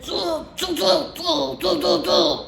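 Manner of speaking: high, playful mocking monkey tsk-tsk; monkey chatter. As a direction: mimic the peddler like cheeky monkeys. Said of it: "stamped their feet back".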